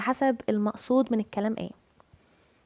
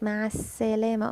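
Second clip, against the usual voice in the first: "السلامه" leaned on at a held س; stress on the س; faster than usual. Retold or imitated. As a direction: press on the س of "السلامه". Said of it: "قمت جايه متكيه على السين". (اتكي على السين في "السلامه")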